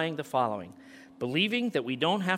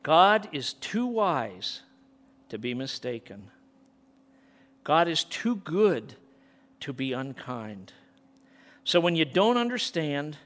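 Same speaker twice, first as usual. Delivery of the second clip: reciting chorus. Real, not acted. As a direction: lean into each line, then let it drop. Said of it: "here is this chorus".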